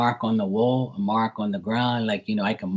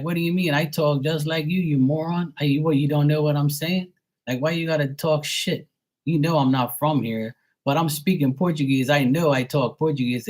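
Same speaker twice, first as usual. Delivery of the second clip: higher-pitched, exasperated protest; retold angry argument; 4 semitones higher than usual. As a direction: argue back indignantly at someone mocking your Portuguese. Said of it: "I'll get mad at 'em".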